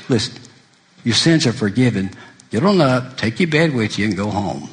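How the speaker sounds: mildly calm, matter-of-fact dismissal; calm reassurance. Retold or imitated. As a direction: quote it calmly, settling down by "go home". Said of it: "He just calmly says".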